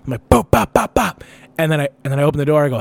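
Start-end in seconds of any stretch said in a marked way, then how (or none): 0.3-1.2 mock knocking, "bop, bop" in a higher voice; imitated knocking on a window. Banging on the car window to wake his friend, mock knocks. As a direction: tap out the knock with your voice, higher. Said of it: "I bang on the window hard".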